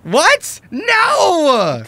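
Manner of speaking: high shocked shout; shocked outcry. Acted. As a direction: scream in disbelief. Counterspell thwarts the spell.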